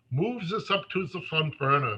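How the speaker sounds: thick, exaggerated, fake German accent. Retelling what a man said to him about his project, in an exaggerated fake German accent. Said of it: "making sure to enlarge his fake German accent".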